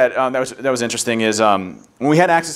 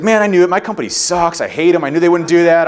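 annoyed employee; 4 semitones higher, 4 dB louder than usual. Retold or imitated. Bob hears iPhone was fake.

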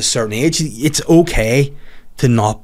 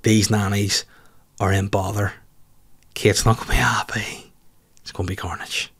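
hushed gossip aside; 4 semitones lower, 5 dB quieter than usual. Retold or imitated. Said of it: "I was looking at being like".

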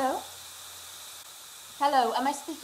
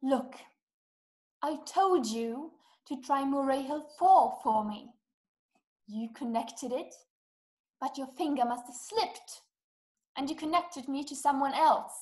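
measured, with pauses between phrases; slow, patient repeat. Acted. Caller repeats it so operator can understand, pointedly measured. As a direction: spell it out as if to someone slow. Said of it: "I'll repeat it slowly for you".

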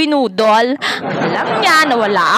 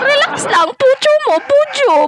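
mock soothing; 11 semitones higher than usual. Real, not acted. Taunting angry rival mockingly.

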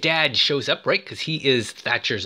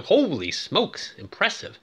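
impressed; 4 semitones higher than usual. Retold or imitated. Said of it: "I'm going".

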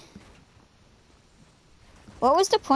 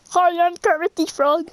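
Kermit the Frog voice; 4 semitones higher than usual. Pretend. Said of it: "That's not a voice changer".

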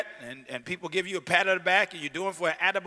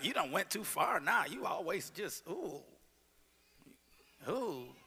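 mocking friends; 8 dB quieter than usual.

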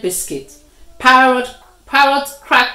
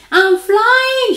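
high, loud joyful shout; 12 semitones higher, 6 dB louder than usual. A narrator's reading. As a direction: shout it out in delight. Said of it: "she shouted".

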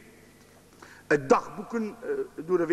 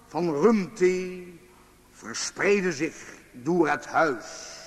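measured diary reading, slower in places; reading aloud. Acted. Author reading his diary to the audience, measured reading. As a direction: read your own diary entry to an audience.

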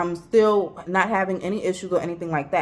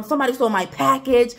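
higher-pitched, indignant retelling of a complaint; upset complaint; 5 semitones higher, faster than usual. Retold or imitated. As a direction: retell it upset, punching PACKAGE. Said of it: "I am highly upset".

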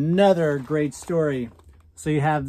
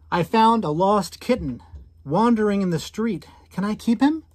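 put-on higher, eager child voice asking mom; lightly voiced boy begging to keep a kitten; hopeful little boy; 7 semitones higher, 4 dB louder than usual. Boy asks mom to keep the lost kitten, hopeful and high.

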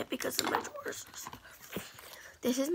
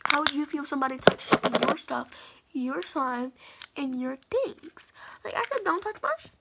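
indignant rant; 4 dB louder than usual. Retold or imitated. Ranting about touched slime.

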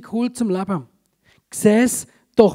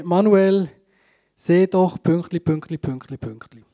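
just reading it off; 4 semitones lower than usual. Shown as a demonstration. Preacher reads the verse to a volunteer, offhand and trailing off. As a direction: read it flat, as if it doesn't matter. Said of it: "ich kann das einfach lesen".

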